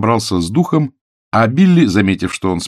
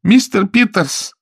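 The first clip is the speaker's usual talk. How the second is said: high, slow despairing cry; Billy cries out in despair; desperate exclamation; 13 semitones higher, 4 dB louder, slower than usual. A narrator's reading. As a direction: plead his name in despair. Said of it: "воскликнула в отчаянии Билли".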